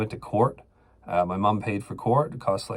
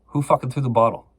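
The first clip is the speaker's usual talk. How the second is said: a mock cop barking the question, a bit louder; cop demanding; 3 semitones higher, 5 dB louder than usual. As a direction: retell the cop's demand with some edge. Cop interrogating him, retold.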